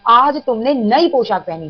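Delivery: slow, each word clear; teacher reading the correct sentence slowly; slow careful reading. Shown as a demonstration. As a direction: read it slowly like a dictation. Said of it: "आ जाइए शुद्धि में".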